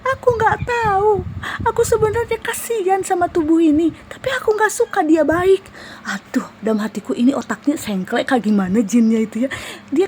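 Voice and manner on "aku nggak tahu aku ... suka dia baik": high eerie jinn voice. Retold or imitated. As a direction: speak as the sulky spirit inside her. Jinn answers why it cries.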